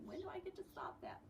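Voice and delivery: breathy high whisper of a weary thought. Retold or imitated. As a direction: whisper it to yourself, fed up. Voicing Nia's tired thought.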